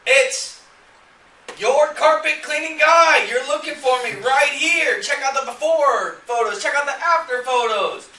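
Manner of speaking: high, loud sales pitch, building to a shout; hammed-up pitchman voice, escalating with each offer; eager web page. Landing page pitching a carpet cleaner to a visitor, eagerly hammed up. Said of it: "the page is gonna say".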